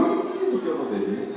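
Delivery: soft, hurried oh-no to himself; a quick, hushed worried aside; worried king. Acted. Pastor voices the king who grew worried, soft hurried regret. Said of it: "o rei ficou preocupado".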